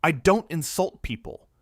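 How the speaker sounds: loud, high angry denial; booming. A narrator's reading. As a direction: boom it out indignantly. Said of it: "Jeremy's voice boomed across the studio".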